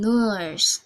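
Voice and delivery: New Zealand "nurse" with a long vowel; demonstrated New Zealand "nurse"; New Zealand English. Shown as a demonstration. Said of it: "this is long vowel".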